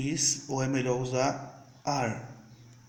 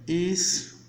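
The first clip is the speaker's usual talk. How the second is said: slow demo English; much slower than usual. Shown as a demonstration. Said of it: "eu poderia falar assim".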